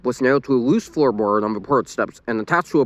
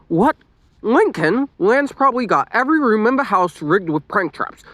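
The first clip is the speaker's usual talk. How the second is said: exclaiming; 8 semitones higher than usual. A narrator's reading. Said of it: "Lenny exclaimed".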